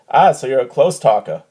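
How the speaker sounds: mock Boston comic's heckle; punchline in a broad Boston accent; loud Boston accent. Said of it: "goes out loud in his Boston accent".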